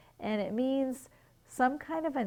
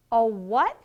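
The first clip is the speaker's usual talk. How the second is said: puzzled asking back; 7 dB louder than usual. Acted. Bunny who missed his father's words, baffled. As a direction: voice shoots up in bafflement.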